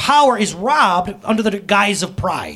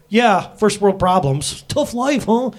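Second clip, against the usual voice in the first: teasing; 3 semitones higher, 3 dB louder, slower than usual. Retold or imitated. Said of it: "I'm like".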